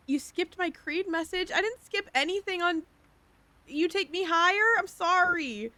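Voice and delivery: high, whiny complaining voice. Pretend. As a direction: whine it out like a sulky kid. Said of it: "I'm gonna turn the whiny voice off".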